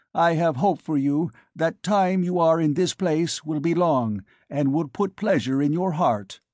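polite alien, lifted pitch; alien ambassador voice. Acted. Alien's farewell.

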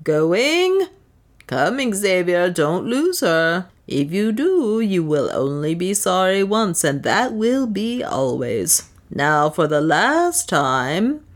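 slow, drawn-out auctioneer; auctioneer's last call. Acted. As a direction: stretch out the final call, lightly voiced. Auctioning, calling final bids.

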